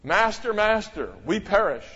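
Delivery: mock desperate plea; cry for aid. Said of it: "it's a cry for aid".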